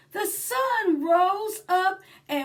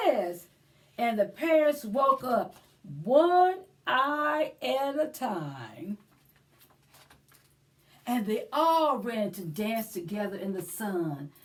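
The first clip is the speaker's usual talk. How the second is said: put-on lively read-aloud for children; story time narration. A narrator's reading. Librarian reading to children, animated storybook voice. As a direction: read it like a picture book to little ones. Reads a picture book aloud.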